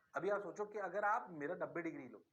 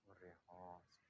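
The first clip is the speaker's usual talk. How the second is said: slow, much lower student voice; student answering the teacher, slow and much lower; mock student; 11 semitones lower, 19 dB quieter, slower than usual. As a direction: drag it out like a dazed student.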